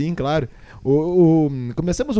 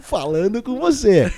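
"você" arrastado, mais agudo, de locutor de FM; locutor de rádio jovem; 5 semitones higher than usual. Shown as a demonstration. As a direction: alongue "falando com você" como DJ de rádio. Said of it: "a gente pode fazer um dia, ah, jovens, rádio F M". (locução de rádio FM jovem)

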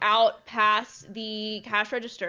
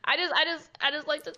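higher-pitched stammering mock panic; retold freaking out; 5 semitones higher, faster than usual. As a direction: imitate flustered pleading, lightly acted. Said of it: "I'm freaking out".

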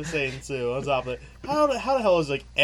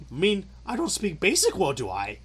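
higher statement dropping into a questioning tag; 3 semitones higher than usual. Acted. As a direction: play Yoda turning a statement into a question. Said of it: "Why is everything a question?".

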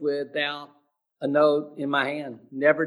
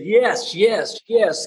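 eager yes; 6 semitones higher, 5 dB louder, slower than usual. Retold or imitated. Woman answering through tears.

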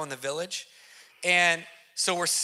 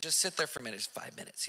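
much softer, last words almost breathed; calm hush; 5 semitones lower, 12 dB quieter, faster than usual. Retold or imitated. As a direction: hush him into the corner. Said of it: "He's just cool and collected".

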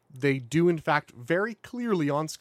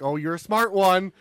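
higher, mocking sheriff voice; 6 semitones higher, 5 dB louder than usual. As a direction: sneer at the driver. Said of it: "He's like".

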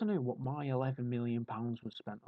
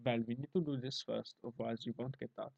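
lightly put-on German efficiency; German accent; 5 dB quieter than usual. German engineer correcting the Italians, mock German accent. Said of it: "by doing that accent".

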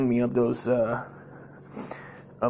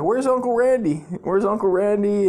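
put-on high, louder childlike asking; little kid calling; 8 semitones higher, 4 dB louder than usual. Kid asking as the relatives pull up, high loud voice. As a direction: imitate an eager kid calling out for an uncle. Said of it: "I'm just like a little kid".

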